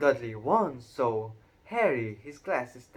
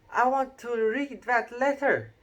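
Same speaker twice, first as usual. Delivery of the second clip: put-on high, loud demanding boy; loudly; 12 semitones higher, 6 dB louder than usual. A narrator's reading. Dudley demands to read the letter, high and loud. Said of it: "he said loudly".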